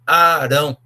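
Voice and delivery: Arão dito com o primeiro a esticado, Aaarão. Shown as a demonstration. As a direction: puxe o a inicial de Arão como quem gagueja de leve. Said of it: "talvez porque ele era gago". (Arão com o a alongado, meio gaguejado)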